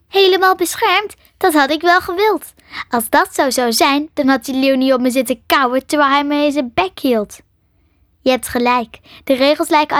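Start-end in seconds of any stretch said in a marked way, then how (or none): 0.1-7.4 disbelieving echo, higher and louder; incredulous. Acted. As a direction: throw the words back in disbelief. (ongelovig, hoger en luider)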